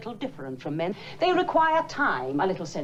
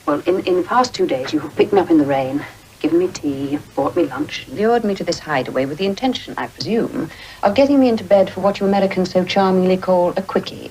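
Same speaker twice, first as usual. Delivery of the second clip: loud, arch accusation; 19 dB louder, faster than usual. Acted. Arch, loud summing-up of seduction.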